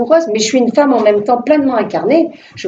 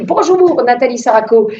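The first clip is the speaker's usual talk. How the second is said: mock-exultant TV caller; big booming voice; 3 semitones higher than usual. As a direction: boom it out like a lottery winner. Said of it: "paf, grosse voix".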